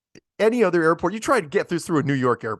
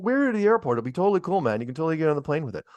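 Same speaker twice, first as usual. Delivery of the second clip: higher, breezy dude voice imitating his pal; lightly voiced easygoing buddy egging him on; retold laid-back friend; 4 semitones higher, faster than usual. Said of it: "He's going".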